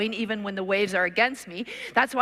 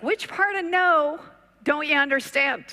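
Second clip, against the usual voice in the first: exasperated; 5 semitones higher, 4 dB louder than usual. Retold or imitated. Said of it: "The lady's like".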